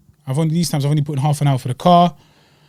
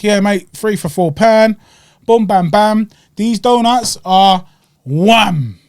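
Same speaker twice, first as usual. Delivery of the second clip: put-on light Cockney accent, slow and a bit higher; Cockney stallholder; 5 semitones higher, 3 dB louder, much slower than usual. Cockney donut seller pitching to the customer, mock Cockney accent. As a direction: do a cheery Cockney trader selling donuts. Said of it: "Cockney's he like".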